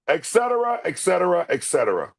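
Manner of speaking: regal stepdown; King of Siam impression. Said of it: "Look at the hands on my hips".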